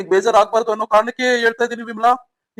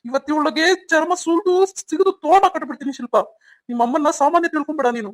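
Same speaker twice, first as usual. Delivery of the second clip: pitched-up furious warning; angry threat; 5 semitones higher than usual. Acted. Father warning daughter about her mother, angry threat. Enraged husband threatens his wife.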